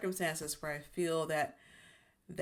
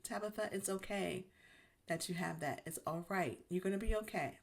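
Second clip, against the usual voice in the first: soothing self-talk; 3 semitones higher than usual. Retold or imitated. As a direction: talk yourself down kindly, like comforting a friend. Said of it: "And so I tell myself that".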